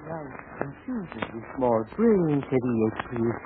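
slow, soft hypnotist's voice; hypnotic voice. Acted. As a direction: lull her under, softly and slowly. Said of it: "she's hypnotizing the other gal".

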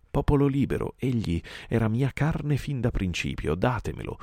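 high, forceful tiger's demand; roaring demand. A narrator's reading. Shere Khan demands the man-cub from the pack, roaring. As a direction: claim your prey before the crowd. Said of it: "Poi Shere Khan ruggì".

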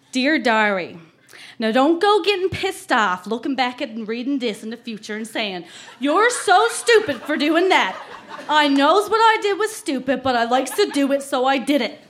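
put-on light Newfie accent reading a diary; Newfoundland accent. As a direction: lean lightly into a Newfoundland small-town accent. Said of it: "I really have to put on the accent".

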